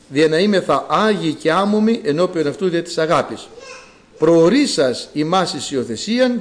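measured, even liturgical reading; scripture reading. Real, not acted. Preacher reading Ephesians to the congregation, even formal reading. Reads the scripture passage aloud.

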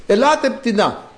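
high, drawn-out acted call. God summoning the birds, calling out. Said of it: "Φωνάζω".

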